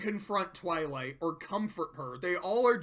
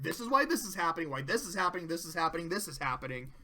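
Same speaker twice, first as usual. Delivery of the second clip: fading repetition; 5 semitones lower, 5 dB quieter, much faster than usual. Retold or imitated. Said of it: "he's like".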